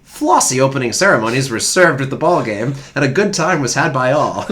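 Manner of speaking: put-on hammy old-time sports writer read; old-timey newsreader. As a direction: read it like a 1910s paper. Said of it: "it's gonna come out throughout this whole reading".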